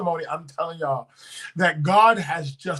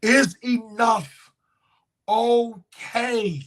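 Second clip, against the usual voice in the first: voice of God; 3 semitones higher, much slower than usual. Retold or imitated. God's question repeated slowly.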